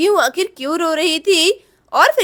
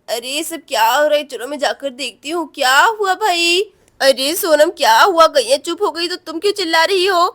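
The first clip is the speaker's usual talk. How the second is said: lower, puzzled woman's voice; a hint of a confused sister waking; lightly voiced Radha; 5 semitones lower than usual. (Radha की हल्की धीमी उलझी आवाज़)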